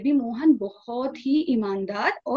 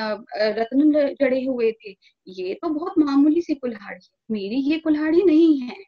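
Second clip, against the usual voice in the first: hammed-up greedy protest, much louder than the narration; loud denial; 2 semitones higher, 5 dB louder than usual. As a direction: push the axe away loudly and greedily. Greedy man loudly denies the axe.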